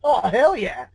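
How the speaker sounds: excited whoop. Retold or imitated. S1 voices the narrator's eager reply to the offer. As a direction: burst out with it like a thrilled fan. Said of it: "my response was something along the lines of".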